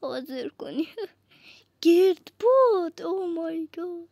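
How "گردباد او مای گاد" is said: surprised shout. Real, not acted. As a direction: burst out at the tornado with a laugh. Spots a tornado in game.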